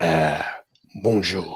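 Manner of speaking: dinosaur character voice with French accent. Asked what a French dinosaur would sound like, answer in a French dinosaur voice. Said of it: "this is my dinosaur voice in French".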